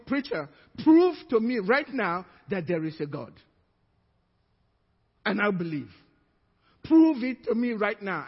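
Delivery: loud, insistent demand to prove it; demanding challenge. Retold or imitated. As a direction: throw down the challenge hard. Agnostic demanding proof.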